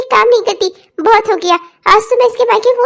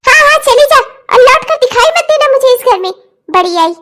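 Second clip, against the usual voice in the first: angry dismissal. Acted. Mother-in-law telling daughter-in-law never to return, angry dismissal. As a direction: drive her out with contempt.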